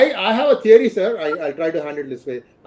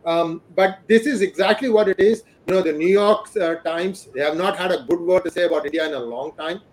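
breaking up, bad connection; choppy audio. Real, not acted. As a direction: audio cutting in and out. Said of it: "your audio is choppy".

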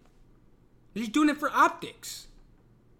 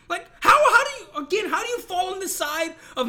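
laughing disbelief; 7 semitones higher, 5 dB louder than usual. Real, not acted.

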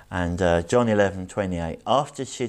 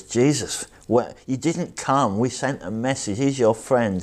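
higher-pitched mock reproach; accusing, hurt; 4 semitones higher than usual. Sisters let Jesus have it for not coming, accusing and hurt. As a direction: retell it as a wounded, halting challenge. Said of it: "let Jesus have it".

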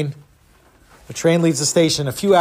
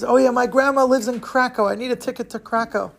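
higher, lightly voiced little boy; hint of a child inventing a story; fibbing boy; 6 semitones higher than usual. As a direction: bluff eagerly in a kid's voice. Boy bluffs the ticket seller.

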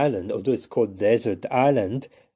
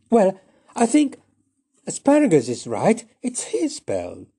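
much higher and louder, slowing at the end; girl's voice; 9 semitones higher, 7 dB louder than usual. Acted. Mortimer siding with Asparagus, high bright girl voice. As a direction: chirp your opinion like a clever girl. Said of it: "And she said".

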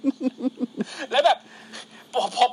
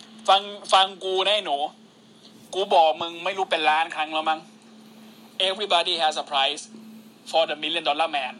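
lower, slow villain voice; Million Dollar Man; 6 semitones lower, much slower than usual. Retold or imitated. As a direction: lay it down slow and low. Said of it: "Teddy Beasley แม่งลุก".

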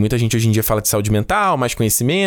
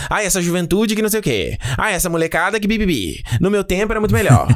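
put-on whiny grumbling old-timer, slightly higher; grumbling old person; 5 semitones higher than usual. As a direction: complain like a cranky old person. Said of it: "a galera mais velha que". (reclamando como um velho rabugento)

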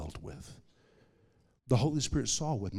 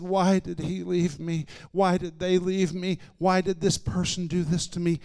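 higher-pitched, imitated plaint of rejection; wounded pleading; 6 semitones higher than usual. Sick woman asking why she was left, pleading. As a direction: act out old hurt pouring out.

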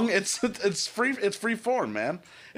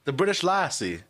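hesitant attempt at an English accent; amateur English accent, breaking into laughter; put-on English accent. Shown as a demonstration. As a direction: answer in a shaky-confidence fake English accent. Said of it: "do it in an English accent".

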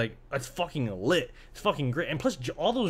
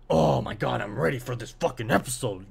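hyped viewer. Acted. Acts out hyped viewer's reaction.

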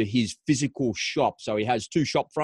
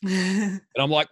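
excited lead-in; 8 semitones higher, slower than usual. Retold or imitated. Mimicking own frantic energy.

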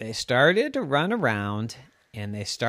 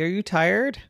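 caring cat; 8 semitones higher than usual. Acted. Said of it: "said Purdy".

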